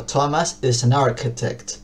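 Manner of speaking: slow careful English "Thomas is an architect"; English demo sentence. Shown as a demonstration. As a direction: say "Thomas is an architect" slowly, linking "an" to "architect". (frase de ejemplo en inglés, lenta y clara)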